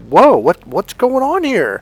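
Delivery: high, drawn-out startled reaction; slow down and pitch way up, taken aback; acted bewilderment. Kind joker suddenly attacked for joking, bewildered.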